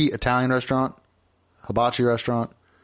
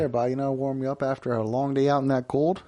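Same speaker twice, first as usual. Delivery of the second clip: put-on Wisconsin accent. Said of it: "staffed by Midwesterners".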